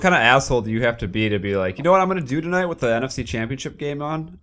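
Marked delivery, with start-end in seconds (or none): 1.8-4.4 mocking voice. Mocking the HOA president's plan.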